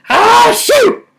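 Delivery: high, loud startled "Oh, shoot!" after a sneeze; loud exclamation. Shown as a demonstration. Nana showing the girls the wrong thing to say when sneezing, loud. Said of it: "instead of going".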